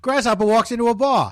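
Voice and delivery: high-pitched joking radio host; car radio host. Acted. Car show host telling a caller a joke, high hammy voice. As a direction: play the jokey call-in car show host. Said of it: "This is Click".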